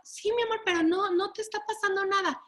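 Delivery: high, gentle coaxing parent; calm the frightened kid sweetly; high reassuring parent's voice; soothing parent. Retold or imitated. Parent soothing the scared child.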